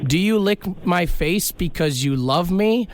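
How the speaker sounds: ordinary talk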